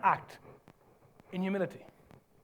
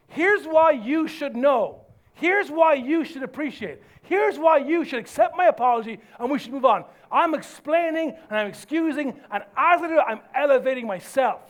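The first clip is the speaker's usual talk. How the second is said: emphatic, raised self-justification; insistent self-justifying; 2 semitones higher, 3 dB louder than usual. Acted. Preacher acts out someone excusing themselves, insistent. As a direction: press each excuse hard.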